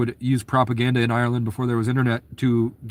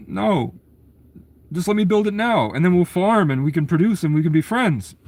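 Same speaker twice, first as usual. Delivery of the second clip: higher, earnest pleading settler; 6 semitones higher than usual. Retold or imitated. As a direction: beg to be allowed to build, higher.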